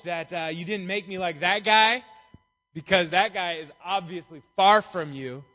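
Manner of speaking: arrogant. Retold or imitated. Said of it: "the one guy's all arrogant".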